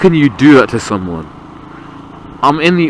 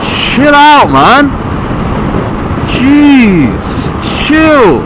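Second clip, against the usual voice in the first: angry yelling; 10 semitones higher, much slower than usual. Real, not acted. Yelling at tailgating truck driver.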